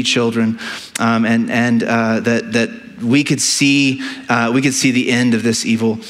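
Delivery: earnest, measured prayer voice; pastoral prayer. Acted. Pastor praying aloud before the sermon, earnest and measured. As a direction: pray sincerely over the congregation.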